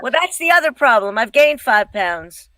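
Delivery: boxy, muffled closet sound; speaking from a small closet; inside a closet. Real, not acted. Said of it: "do you record in your closet".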